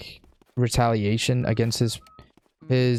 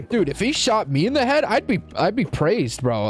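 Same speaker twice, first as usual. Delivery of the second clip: frat bro; 3 semitones higher than usual. Pretend. Mocking Trump supporters.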